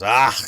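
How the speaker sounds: sharp loud "Ah!" outburst; short acted yell. Streamer acting out someone's cry, short loud yell. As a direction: let out one quick, loud cry.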